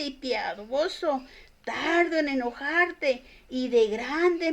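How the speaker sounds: emphatic Bible reading aloud; scripture reading. Acted. Preacher reading Jonah's complaint to God from scripture, emphatic reading. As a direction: read the verses out with measured, declaimed emphasis.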